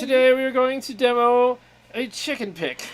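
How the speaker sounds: mock demo pitch; laughing YouTuber parody; impression of Aaron. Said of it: "I could do Aaron".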